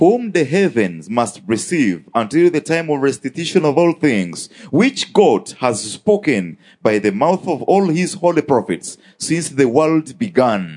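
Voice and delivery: slow, measured Bible reading; scripture reading. Acted. Interpreter reading Acts to the congregation, slow scripture reading. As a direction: read the verse out slowly and deliberately. Reads scripture aloud in translation.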